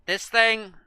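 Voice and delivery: talking with his mouth full. Real, not acted. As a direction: speak through a mouthful of food. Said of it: "Apologies for speaking with my mouth full".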